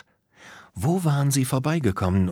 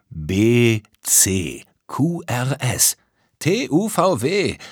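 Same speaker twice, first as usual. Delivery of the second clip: aping recital of letters, climbing higher; mocking mimicry; 3 semitones higher, 4 dB louder, much slower than usual. Tom apes Danonino's letter list, mocking. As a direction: parrot the alphabet, rising toward the end. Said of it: "äffte Tom weiter".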